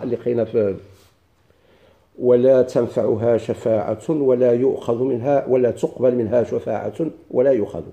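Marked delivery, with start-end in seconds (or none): 2.2-7.8 slow, measured Quranic quotation; careful classical Arabic recitation; quoting scripture. Acted. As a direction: recite the verse steadily, without melody. Recites Quranic verses as examples.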